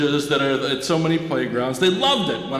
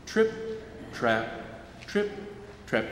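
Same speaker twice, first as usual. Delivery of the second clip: hoof sound; 4 semitones lower, 10 dB quieter, slower than usual. Shown as a demonstration. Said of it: "Do you remember it?".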